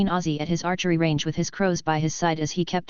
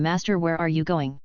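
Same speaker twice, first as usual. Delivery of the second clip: jittery. A narrator's reading. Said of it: "They all asked jittery".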